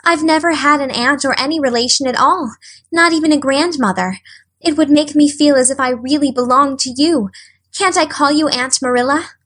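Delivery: Anne's voice. Acted. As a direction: ask hopefully.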